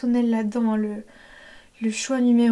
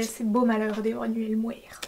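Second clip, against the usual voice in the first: whispered title; 4 dB quieter than usual. Real, not acted. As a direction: whisper the song title as a quick aside. Whispered aside of song title. (titre chuchoté rapidement)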